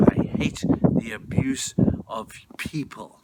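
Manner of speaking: harsh, forceful outburst of anger; acted angry outburst; outraged. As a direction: cry it out in righteous outrage. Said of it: "his anger in an outrage of saying".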